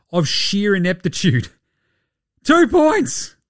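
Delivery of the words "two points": Two points, shot up high in disbelief; exasperated outburst. Real, not acted. Podcaster venting about a max player, exasperated high outburst. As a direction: spit it out like you can't believe it.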